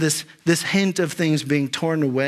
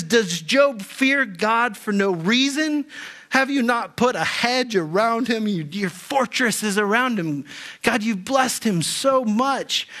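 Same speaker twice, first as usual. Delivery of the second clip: a lightly voiced sneer as Satan, pitched up; mocking tone; 5 semitones higher than usual. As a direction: taunt God in a sing-song, mildly mocking Satan voice. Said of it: "in this mocking tone".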